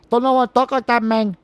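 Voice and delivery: exaggerated Latino accent; made-up Latino accent. Shown as a demonstration. Host mocking a celebrity's accent, put-on Latino accent. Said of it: "that's a made-up accent".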